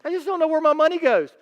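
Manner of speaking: high, quick put-on whine; lightly mocking the clueless spender; mock whiny complaint. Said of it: "You ever said that?".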